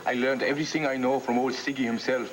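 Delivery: hammy fake German accent; bad German accent. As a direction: ham up a German accent like Freud. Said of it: "That's the worst German accent I ever heard".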